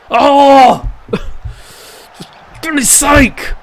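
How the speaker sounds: high, stretched-out laughing groan of despair; exasperated laugh. Real, not acted. Manager watching his side blunder, laughing in exasperation. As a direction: laugh it off in slow disbelief. His team nearly concedes.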